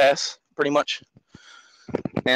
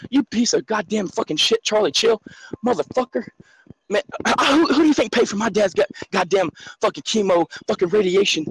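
raised, heated tirade; furious rant; 3 semitones higher than usual. Real, not acted. Caller screaming at Charlie about his sick father. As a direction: yell it out at him, barely holding on. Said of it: "I went on a little fucking freak out".

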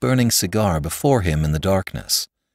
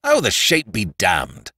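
exasperated outburst; slower than usual. A narrator's reading. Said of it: "cried Flambeau".

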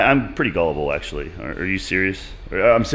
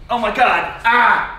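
pained cry, higher and louder; sore muscles; 7 semitones higher, 3 dB louder than usual. Real, not acted. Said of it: "Everything hurts after the splits".

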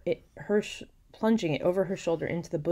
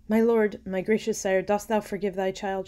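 higher, louder dramatic plea; pleading daughter; 5 semitones higher, 7 dB louder than usual. A narrator's reading. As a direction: beg your father to forgive you. Dying daughter begs father's forgiveness.

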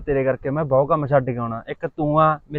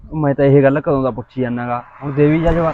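insistent demand; 6 dB louder than usual. Acted. Boy demanding an answer.

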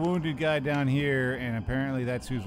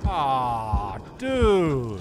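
disgusted groan; 5 dB louder than usual. Real, not acted. Disgusted at a sudden fart.

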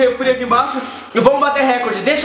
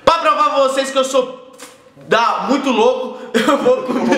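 mouth burning from spicy food. Real, not acted. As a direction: still burning from pepper. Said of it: "minha boca tá ardendo".

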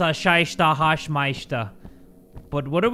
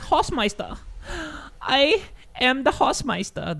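dramatic villain voice; 7 semitones higher, slower than usual. Pretend. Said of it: "It sounds cool to say".

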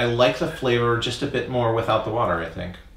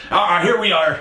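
loud, much higher hammed-up British; hammed-up lower class British accent, loud and high; over-the-top lower class British; 10 semitones higher, 6 dB louder than usual. Shown as a demonstration. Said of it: "it's usually over the top".

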